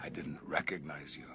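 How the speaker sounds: very low, deep, gravelly voice. Greeting Nausicaa, happy to see her: gravelly voice. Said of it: "gravelly and everything".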